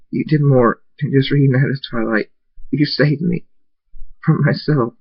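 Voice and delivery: tearful thanks. Acted. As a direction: choke up with relief. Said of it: "Tears go down my cheeks".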